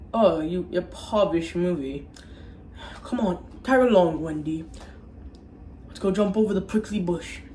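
lightly put-on British accent; mock British. Gregory invites Wendy along, in a mock British accent. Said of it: "He's British".

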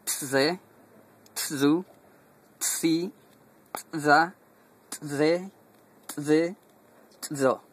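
"Tse, tsu, tsi" with a tight popped ts like in "pizza"; ejective ts syllables. Shown as a demonstration. Teacher drills the ejective TS row after the pizza comparison. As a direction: snap each "ts" off sharply. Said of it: "y este sería más como pizza".

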